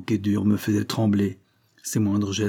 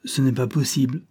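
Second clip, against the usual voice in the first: mildly scornful disbelief; disdainful; 3 semitones higher than usual. Acted. Prisoner doubting the policeman made the arrest, lightly disdainful. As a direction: dismiss it with a touch of disdain. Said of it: "sourit dédaigneusement et dit".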